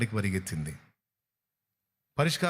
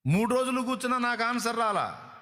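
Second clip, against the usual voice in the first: higher, whining complaint about unanswered prayer; whiny complaining believer; 7 semitones higher than usual. Retold or imitated. A believer grumbling to the preacher, whining. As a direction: moan that God gave no answer.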